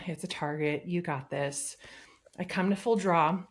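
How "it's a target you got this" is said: softly coaching yourself; calming self-talk. Retold or imitated. Hunter calming herself before drawing, quietly. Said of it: "working to calm myself down".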